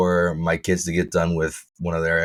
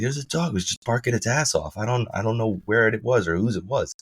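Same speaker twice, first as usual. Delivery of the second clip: lightly imitated neighbor, pitched higher; exasperated neighbor; 5 semitones higher than usual. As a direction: retell her complaint in a raised pitch. Acts out neighbor complaining about dog.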